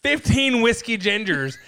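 worked up. Retold or imitated. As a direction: get worked up describing a brutal hangover. Hungover self fighting kidnappers.

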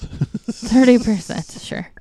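slow, stretched mock disbelief; sarcastic drawl. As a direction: drag it out sarcastically. Mocking the doubtful answer.

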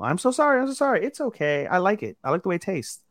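high, soft, hurried mock apology; flustered apologetic character. Co-host retells the cake mishap as the characters, mock-flustered and high. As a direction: imitate a sheepish anime character in a small high voice. Voicing a flustered anime couple's exchange.

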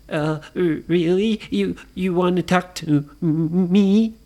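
nervous stammer. Acted. Timid ghost answers.

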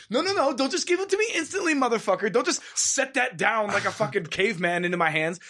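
high hammed-up entitled shopper complaining; mock spoiled customer. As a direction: whine like a pampered shopper. Mocking a spoiled online shopper.

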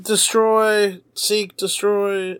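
slow robotic Terminator monotone. Retold or imitated. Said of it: "it was definitely robotic".

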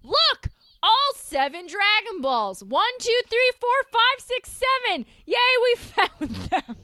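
put-on high, giddy childlike counting; excited Krillin. Podcaster mocking Krillin counting Dragon Balls, high and giddy. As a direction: squeal it like a thrilled kid. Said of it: "Krillin's just like".

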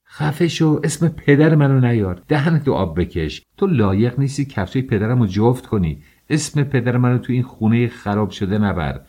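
wife defending her father's name at her husband; furious outburst. Acted. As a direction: scream him down in rage.

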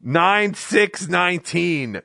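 slow, drawn-out mock-grave announcement; mock-solemn proclamation. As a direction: proclaim it like a historic tragedy.

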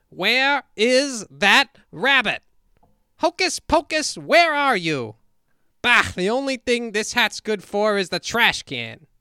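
high, loud bumbling magician; hammy stage conjuror flourish; Professor Hinkle. Acted. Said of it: "listen to some Hinkle".

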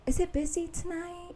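high chirpy small-talk voice; chatty small talk. Retold or imitated. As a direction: put on an eager chatty tone. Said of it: "chatting up the Uber".

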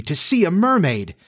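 put-on high, wistful girlish exclamation; excited cry. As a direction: marvel in a high, swooping voice. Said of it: "cried Wendy".

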